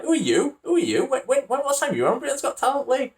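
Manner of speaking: high, loud mickey-taking voice; mocking someone's talk. Quizzing someone about Britain's Got Talent, mocking how people talk. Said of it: "taking mick out of people 'cause we're the talk".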